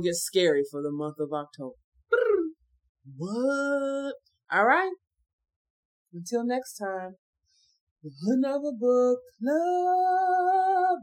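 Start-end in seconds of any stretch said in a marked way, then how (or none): 6.1-11.0 sign-off. Acted. Show sign-off.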